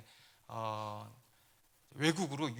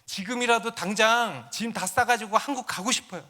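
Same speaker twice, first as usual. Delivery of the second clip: mild mock desperate prayer cry, pitched higher; imitated crying out; 5 semitones higher than usual. Lonely student abroad begging God alone in the house, imitated crying out. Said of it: "소리를 고래고래 지르면서".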